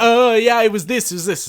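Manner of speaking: put-on kids chiming in. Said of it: "they'll all just be like".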